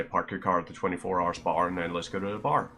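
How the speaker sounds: HOUR said "ar", rhyming with Spar, car, bar; quick run with HOUR as "ar"; Northern Irish rhyme. Shown as a demonstration. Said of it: "So I would say".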